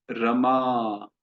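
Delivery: रमा with short vowels, said slowly; plain short a in रमा. Shown as a demonstration. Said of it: "छोटा अक्षर है तो उसका सामान्य उच्चारण है".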